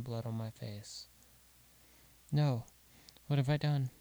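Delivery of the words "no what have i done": a mother's horrified shout; anguished cry. Acted. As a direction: scream it as the knife lands. Mother realises she stabbed son.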